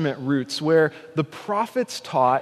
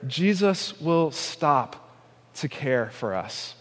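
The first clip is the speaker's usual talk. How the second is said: tender; 3 semitones lower, 4 dB quieter, slower than usual. Real, not acted. Tender closing appeal.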